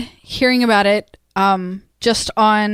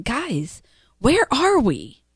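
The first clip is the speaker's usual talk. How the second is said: quoting Charlie; 4 dB quieter, slower than usual. Retold or imitated. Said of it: "ended with Charlie saying".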